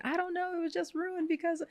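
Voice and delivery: put-on very high, whiny childish complaint; whiny mock wail. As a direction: wail it like a sulking kid. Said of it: "I was like".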